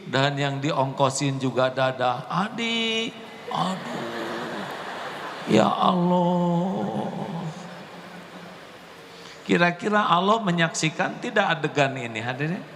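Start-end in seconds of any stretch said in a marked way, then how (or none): 2.3-7.1 drawn-out slow aching "ya Allah"; heartbroken sigh. Retold or imitated. Adi watching the bus leave without him, slow and sad. Child left behind by bus. 9.4-12.6 raised preaching voice, questioning. Acted. Preacher challenging the congregation, raised voice.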